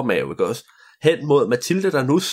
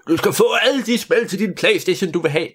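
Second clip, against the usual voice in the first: higher grand proclamation; the king proclaims to Mathilde in a higher grand voice; proclaiming king; 7 semitones higher than usual. Acted. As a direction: announce it like a king granting a wish. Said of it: "proklamerede han".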